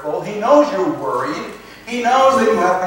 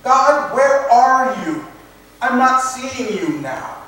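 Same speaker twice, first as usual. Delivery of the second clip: pleading cry to God; 4 semitones higher, 3 dB louder than usual. Retold or imitated. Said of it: "he's saying".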